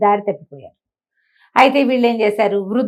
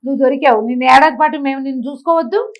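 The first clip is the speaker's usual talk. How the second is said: quarrelsome thieves; 5 semitones higher, 4 dB louder than usual. Acted. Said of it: "అని పోట్లాడారు".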